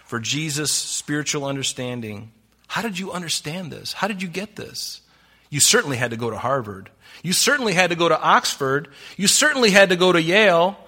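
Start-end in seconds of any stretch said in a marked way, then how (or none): 2.7-5.0 softly puzzled sceptic's questions; incredulous questioning. Acted. Voicing incredulous critics of Jesus. 5.5-10.8 mock-insistent critic, rising in force; insistent sceptic. Critics insisting, building list.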